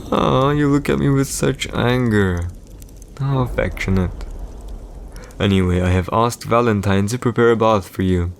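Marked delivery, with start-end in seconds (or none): 0.1-4.2 higher-pitched, patronising coo; mock-tender teasing. Emperor teasing his angry wife, mock tenderness. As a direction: tease as if touched by the glare.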